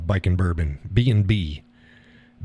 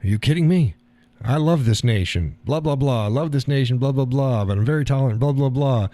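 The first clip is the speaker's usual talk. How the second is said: dismissive higher-pitched imitation of griping; imitated whining protest with sing-song blahs; mock complaining; 4 semitones higher than usual. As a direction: rattle off a mock complaint in a raised voice. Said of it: "He was complaining".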